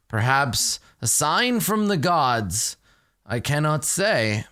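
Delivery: a hint of a gracious old cleric; noble npc voice. GM voicing Thavius to the party, slow and courtly.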